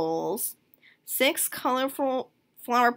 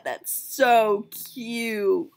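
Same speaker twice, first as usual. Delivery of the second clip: drawn-out gush; 5 dB louder, much slower than usual. Real, not acted.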